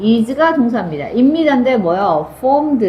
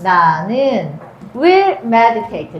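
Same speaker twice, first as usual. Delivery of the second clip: 나는 will meditate, drawn out very slowly; slow, deliberate dictation of will meditate; slow reading; 3 semitones lower, much slower than usual. Shown as a demonstration. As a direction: stretch each word of will meditate. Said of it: "뭐라고 말할 거야?".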